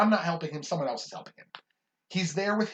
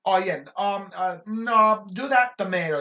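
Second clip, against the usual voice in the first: a fussy customer's raised, higher voice; louder, pushy customer quote; demanding customer; 6 semitones higher, 8 dB louder than usual. Retold or imitated. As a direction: bark the order like a picky regular. Customer dictating sandwich order.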